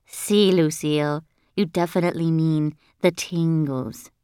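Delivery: a hint of a different boy's voice; lightly voiced Jose. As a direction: correct her evenly, without fuss. Classmate Jose gently corrects Lucille.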